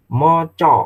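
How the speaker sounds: Moco with O sounds, moh-choh; Javanese pronunciation. Shown as a demonstration. Teacher showing how Javanese reads Moco. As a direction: say Moco with round O vowels. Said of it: "Itu tulisannya maca".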